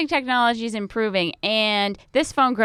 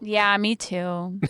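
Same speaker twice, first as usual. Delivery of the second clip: deadpan me too; 4 dB quieter, slower than usual. Pretend. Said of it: "I'm kidding".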